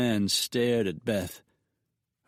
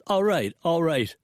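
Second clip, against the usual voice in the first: frightened; 8 semitones higher, 4 dB louder than usual. A narrator's reading. Banker gives in to threats.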